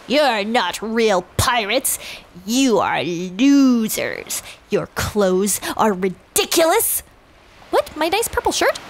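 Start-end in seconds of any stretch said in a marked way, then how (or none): 0.1-7.0 slow, mildly gruff taunt; a hint of a sneering pirate; lightly voiced Captain Meanie. Villain captain taunting the crew, slow and lightly sneering. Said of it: "Captain Meanie says".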